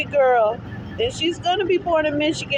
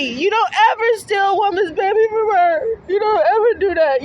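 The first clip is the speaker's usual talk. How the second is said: tearful. Real, not acted. Tearful pleading with the agency.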